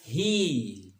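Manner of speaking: हील with a stretched long ee; हील as a long-vowel model; long vowel demo. Shown as a demonstration. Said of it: "मैं एक लफ्ज़ लिखता हूँ हील".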